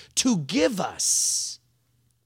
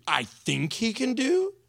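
mocking echo; 4 semitones higher than usual. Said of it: "Well, I think he can do".

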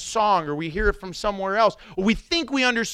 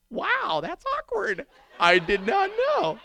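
higher, startled realization; surprised; 11 semitones higher, slower than usual. Retold or imitated. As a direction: catch yourself off guard. Speaker surprised at misunderstanding.

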